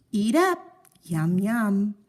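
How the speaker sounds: sleepy mother feeding; doting mother. Acted. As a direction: urge the child to eat, sweetly. Wife voiced offering toast.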